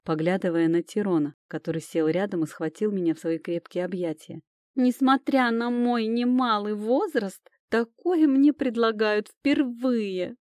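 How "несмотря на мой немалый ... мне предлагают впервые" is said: страдальческий стон. Acted. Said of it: "простонал эльф".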